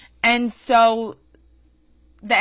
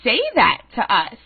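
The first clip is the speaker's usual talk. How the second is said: much higher, louder, whiny mock innocence; mock bewildered friend; 9 semitones higher, 4 dB louder than usual. Friend protesting to him in the theater, whiny mock voice. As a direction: play the clueless friend, squeaky and pleading. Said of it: "her friend is saying to me".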